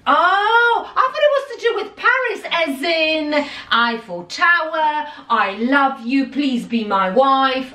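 high, swooning over-the-top; dreamy hammed-up romance; mock romantic. Real, not acted. Romantic Paris fantasy.

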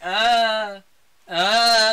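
imitated strained grunts; mock choking groan. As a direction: groan as if held in a choke. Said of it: "Satan's just like".

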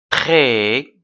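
"Très" ending on an open vowel, last consonant silent; silent final letter. Shown as a demonstration. Teacher models reading for pupils, silent ending on "Très". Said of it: "alors T ne se prononce pas".

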